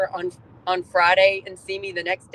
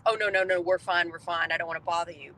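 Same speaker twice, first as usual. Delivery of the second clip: mock-modest brush-off that fades much softer; self-effacing no-thanks getting quieter; polite refusal; 4 dB quieter than usual. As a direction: wave off the help apologetically, trailing away. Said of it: "'Cause normally I'd be like".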